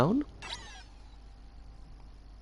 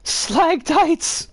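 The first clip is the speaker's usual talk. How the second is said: squeaky high exclamation; pitched way up and playful; high silly voice; 13 semitones higher, 3 dB louder than usual. Pretend. Silly mock cry of phrase.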